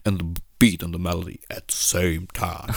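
tief und leise nachgemachter Beatboxer; leise, tiefe Beatboxer-Imitation; Zitat eines Beatboxers nachgemacht. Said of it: "dieses legendäre". (leise, tiefe Beatboxer-Imitation, legendärer Spruch)

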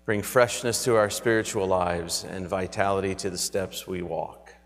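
reverent, earnest prayer voice. Acted. Pastoral prayer.

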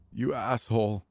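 angry high insult; shrieking. A narrator's reading. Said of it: "Becca shrieks at me".

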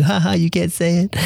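high, playful taunting singsong; mocking laugh. Brazilians mocking an American's pronunciation, high taunting laugh. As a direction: rub it in with a laugh. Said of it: "laugh at you".

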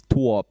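"Tor" as a drawled "Tuop"; yucky overstressed vowel. Retold or imitated. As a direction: mimic the rapper's overdone "Tor" sound. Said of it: "so eklig betont". (eklig betont)

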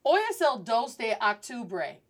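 octubre with English "ahk" start; mispronounced Spanish. Shown as a demonstration. Teacher answering as a learner would, octubre mispronounced as "ahk". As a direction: answer with octubre opening like October. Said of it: "they will pronounce this word as".

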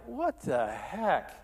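exasperated, pitch lifting on the protests; retold bewildered frustration, stretched out at the start; frustrated. Pastor recalls questioning God after the lost deal, frustrated. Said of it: "I'm, I'm just frustrated".

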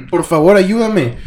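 hammed-up damsel yell; retold scream for help. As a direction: cry out for help, acted. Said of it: "Y empieza a gritar".

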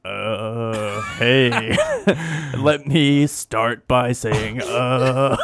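sexy voice. Pretend. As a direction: go for sexy, land on cartoon. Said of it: "You sound like Butthead".

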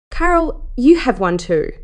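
high excited burst on the name; gushing. Acted. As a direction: squeal her name with delight. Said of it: "she gushed".

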